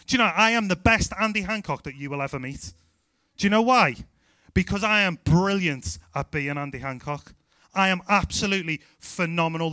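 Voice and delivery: playful, emphatic self-praise; mock boasting. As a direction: boast with big punched emphasis, tongue in cheek. Playful boast about being himself.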